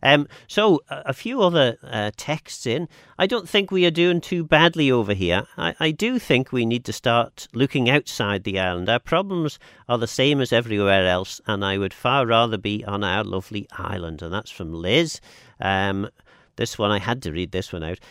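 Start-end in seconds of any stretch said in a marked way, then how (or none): 3.2-14.2 reading out a text. Acted. Host reads a listener text.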